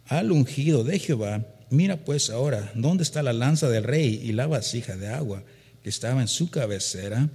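loud, declaiming Bible reading; preacher reading scripture aloud with force. Acted. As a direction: proclaim the verse to the congregation.

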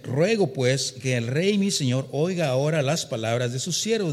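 loud, declaiming Bible reading; preacher reading scripture aloud with force. Acted. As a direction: proclaim the verse to the congregation.

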